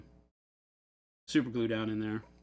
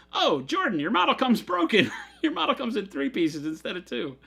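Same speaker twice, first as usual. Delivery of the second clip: high retold taunt breaking into laughter; mock teasing; 8 semitones higher, 5 dB louder than usual. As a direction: tease him, pitched up, laughing through it. Retold Chris teasing Jordan.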